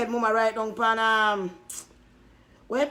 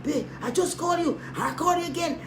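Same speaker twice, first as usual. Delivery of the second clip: mock yell; 5 semitones higher than usual. Mocking the girlfriend's phone call.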